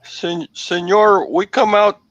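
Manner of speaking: put-on hammy Spanish accent voice. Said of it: "Easy on the accent, mister".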